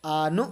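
"আনু" cut off hard at the end by a glottal stop; long "আ", then "নু" shut off firmly; firm stopped hamza. Shown as a demonstration. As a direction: stop sound and breath sharply after "আনু". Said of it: "এটাকে আওয়াজ নিঃশ্বাস শক্তভাবে উচ্চারণ".

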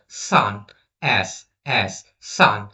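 সান said slowly with a clear hissed s; pronunciation demo. Shown as a demonstration. Teacher showing pupils the s sound, pronunciation demo of সান. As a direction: model সান and এস with a plain s sound. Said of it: "সানটা আমরা কত সহজেই বলি".

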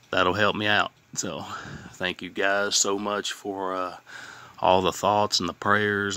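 talking around a healing bitten tongue; speech a little off from a sore tongue. Real, not acted. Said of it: "if I sound a little funny, my tongue".

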